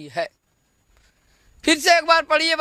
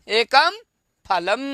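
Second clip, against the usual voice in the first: एकम, pause, then फलम, split apart; word by word. Shown as a demonstration. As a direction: break it into single words for the class. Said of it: "ये देखिए एक है ना".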